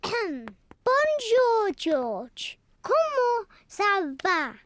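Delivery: Bonjour said the French way; speaking French. Shown as a demonstration. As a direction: Comment ça va said in French. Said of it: "She spoke French".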